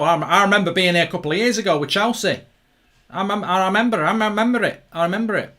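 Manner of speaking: hammed-up Cockney fan; attempted Cockney accent. Fan claiming he was here with Chelsea, mock Cockney. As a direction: have a rough go at a Cockney accent.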